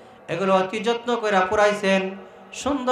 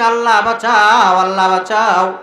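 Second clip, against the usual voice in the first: mock cries for help; 8 dB louder than usual. Preacher imitating drowning people crying to Allah, mock wailing. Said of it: "চিৎকার করে কানছে আর বলছে".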